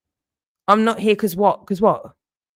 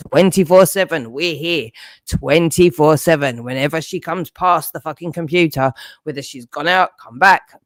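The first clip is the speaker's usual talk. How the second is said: mock voice of the watchers. Mocking the watchers as them.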